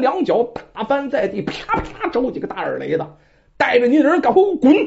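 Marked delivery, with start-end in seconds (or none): 3.6-4.8 loud, fast, harsh order to clear out; sterner command. Acted. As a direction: drive them out with a sharp command. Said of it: "这马氏的声音更加严厉". (更加严厉地喝令滚开)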